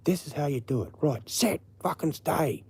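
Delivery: high-pitched mock dog command; acted-out demonstration, firm and instructive; commanding dude. Passer-by showing an owner how to command a dog, mock-stern. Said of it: "a dude that would have gone".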